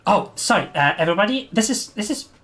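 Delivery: lightly voiced excited Abby, searching for a word; flustered Abby. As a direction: fumble for the word, voice rising.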